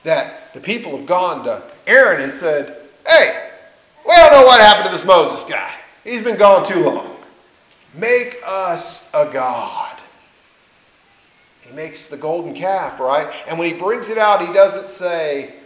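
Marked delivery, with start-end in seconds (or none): 3.1-9.9 mock demand. People demanding Aaron make a god.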